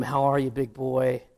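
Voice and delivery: coaxing sweet voice to the dog; a woman sweet-talking a dog; mock sweet talk. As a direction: sweet-talk him like a pet. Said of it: "Talking real sweet to him".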